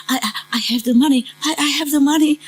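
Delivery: mock-pitiful high stammer; pitiful pleading. Homeless woman pleading with restaurant staff, pitiful high stammer. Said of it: "So pitiful".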